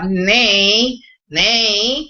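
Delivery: "ney" with a squeaky nasal placement; nasal squeal. Shown as a demonstration. Teacher recalls the exercise's syllable, nasal squeal. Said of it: "el mismo escuilo que encontraste en la sílaba".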